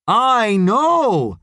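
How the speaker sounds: loud, high, stretched words; shouted reply. A narrator's reading. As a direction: shout back that you know. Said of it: "why are you shouting at him".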